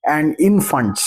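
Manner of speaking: slow, deliberate affirmation, calmly certain. Shown as a demonstration. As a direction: speak it slowly as settled fact. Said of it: "आप ये भी बोल सकते हैं कि".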